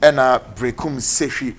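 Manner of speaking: brisk, punchy advert voice; lively sponsor read on air; radio ad read. Acted. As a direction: sell the clinic like a radio announcer. Host reads sponsor clinic ad.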